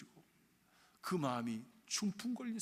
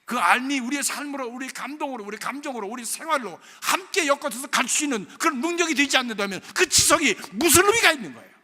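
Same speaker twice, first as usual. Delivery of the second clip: much louder and higher, 의미가 hammered with a falling end; preaching at full force; 6 semitones higher, 15 dB louder than usual. Acted. Preacher shouting at the congregation that cold intellect is meaningless. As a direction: shout the question at the whole church. Preaching builds to loud climax.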